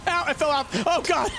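startled yelps after a crash; tripping and falling. Real, not acted. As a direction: caught off guard by a spill. Bike crash in game.

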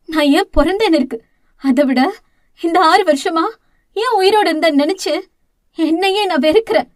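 a touch of anguished crying, rushing at the end. Acted. Elder sister cries out her self-hatred, anguished. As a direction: lament in despair, half crying. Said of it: "தலையை பிடித்துக்கொண்டு கதறிட".

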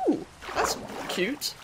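slow hushed whisper of delight; soft whisper. Real, not acted. Player charmed by a little bell, whispering slowly. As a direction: breathe it out like a secret.

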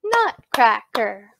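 "nutcracker" slowly in measured beats; syllable by syllable. Shown as a demonstration. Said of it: "clap that with me now".

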